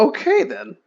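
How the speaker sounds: a startled, flat acceptance; deadpan okay. Retold or imitated. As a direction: caught off guard by a long-lost dad. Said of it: "It's just like".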